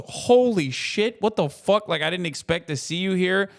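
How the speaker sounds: imitating a stunned passerby who can't believe it; mock-startled outburst; shocked fan. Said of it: "When someone just goes".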